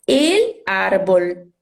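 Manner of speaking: el árbol said very slowly, in two separate words; Spanish pronunciation. Shown as a demonstration. Teacher giving the Spanish gender example, el árbol said slowly with clear l sounds. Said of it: "Em espanhol".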